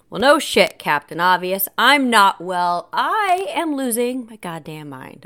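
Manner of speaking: loud, emphatic sarcastic comeback; exasperated retort. Retold or imitated. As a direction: fire back at stating the obvious. Acted snappy reply to the doctor.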